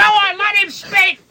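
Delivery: very high, drawn-out comic cry; high-pitched crowd-member plea, stretched out; mock heckler. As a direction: heckle slowly in a high put-on voice.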